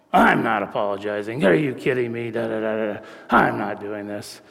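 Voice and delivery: defiant refusal. Retold or imitated. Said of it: "We call that going into her ghetto mode".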